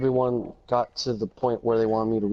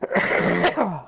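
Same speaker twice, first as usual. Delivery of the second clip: cough; 6 semitones higher than usual. Real, not acted. Streamer's own cough between lines.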